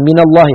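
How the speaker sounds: من linked as mina to الله; short a on the nun of من before الله; nun given fatha. Shown as a demonstration. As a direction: say من الله as mina-llah, in one piece. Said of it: "حرك بالفتح".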